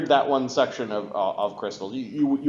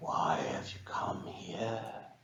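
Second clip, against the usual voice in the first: very quiet, hoarse, raspy, barely-there whisper; 6 semitones lower, 13 dB quieter than usual. Narrator voices an unseen speaker addressing the party: raspy voice. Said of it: "you hear a voice, raspy".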